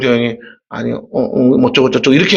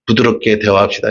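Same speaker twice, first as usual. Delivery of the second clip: soft and gentle; 6 semitones lower than usual. Shown as a demonstration. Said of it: "옆 사람과 한번 얘기해 주세요".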